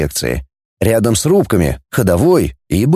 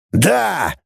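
heated cry; 6 semitones higher than usual. A narrator's reading. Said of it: "выкрикнул капитан в запале".

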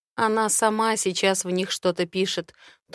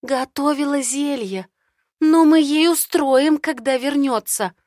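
indignant threat; 6 semitones higher, 6 dB louder than usual. Acted. Mel threatens friend.

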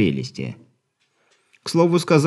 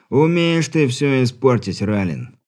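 slow, mildly exasperated sigh of words; sighing complaint; 3 semitones higher than usual. Acted. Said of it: "вздохнул тот". (медленно, со вздохом досады)

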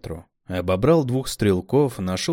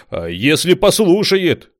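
higher, louder worry; alarmed; 9 semitones higher, 9 dB louder than usual. A narrator's reading. Smart one fearing she obeys, alarmed. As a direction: object in alarm.

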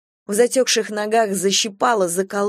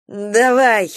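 hoarse command; 2 semitones higher, 5 dB louder than usual. Acted. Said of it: "хрипло приказала Галя".

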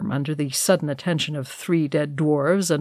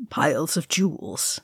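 scornful snort; 5 dB quieter than usual. Acted. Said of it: "Gandalf snorted".

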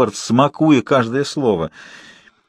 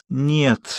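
groaning no; 4 semitones higher, 3 dB quieter than usual. Acted. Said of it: "застонал я".

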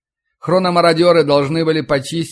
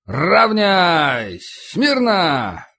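barked drill commands; 4 semitones higher, much slower than usual. Acted. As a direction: call the line to attention. Sergeant commands the formation.

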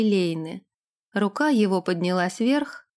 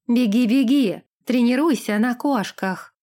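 louder mocking shout at his back; shouted taunt; 2 semitones higher, 3 dB louder than usual. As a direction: yell a jeer after him. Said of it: "выкрикнула Лилейна ему в спину". (насмешливый выкрик вслед)

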